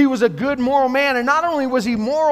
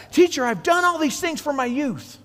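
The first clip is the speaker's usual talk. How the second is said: eager, higher boast of his record; proudly eager, a bit raised; excited; 6 semitones higher than usual. Acted. Rich young man tells Jesus his record, excited. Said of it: "you can almost see him probably getting excited".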